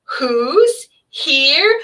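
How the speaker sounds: put-on high happy baby-talk cheer; excited motherese. Shown as a demonstration. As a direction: squeal it up high to delight a baby. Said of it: "my voice goes higher with babies, and that's called motherese".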